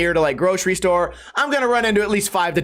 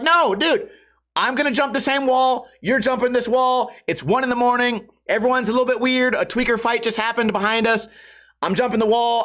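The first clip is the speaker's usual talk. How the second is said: nervous placating; 5 semitones higher than usual. Retold or imitated. Placating the guy over the fence.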